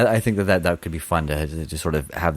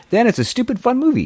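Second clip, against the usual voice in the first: high, loud mock enthusiasm; excited shout; 5 dB louder than usual. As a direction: belt it out gleefully. Repeats phrase in building steps.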